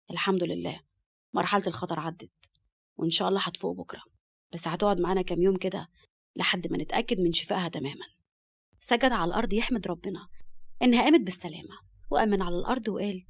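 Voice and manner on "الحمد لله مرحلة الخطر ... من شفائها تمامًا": a touch of doctor's calm. Acted. Doctor reassuring Murad after surgery.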